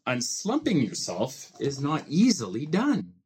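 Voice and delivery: lively rhyming storybook reading with playful swings; reading to children. A narrator's reading. Dad reading a Seuss book to his child, lively storybook voice. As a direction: read it like a bedtime picture book, bouncing the rhymes.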